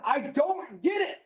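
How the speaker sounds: slow, emphatic yell. Real, not acted. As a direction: hammer each word out in frustration. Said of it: "I'm sorry I'm yelling".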